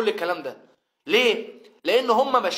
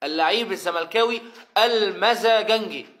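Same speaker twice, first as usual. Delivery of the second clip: "اللعيب الزملكاوي المزاجنجي" run together; one-breath catchphrase. Shown as a demonstration. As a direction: rattle the whole phrase off as one word. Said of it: "هي بتتقال على بعضها كده".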